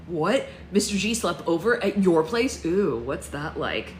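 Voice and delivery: loud, startled, then a slow teasing ooh; nosy gasp at juicy news; shocked surprise. Acted. Shocked boy over the news.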